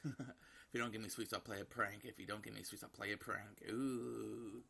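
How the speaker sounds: lightly voiced child repeating a threat, long whiny ooh; mild childish pestering; demanding little girl. Daughter pestering her mother for sweets, lightly whining child voice.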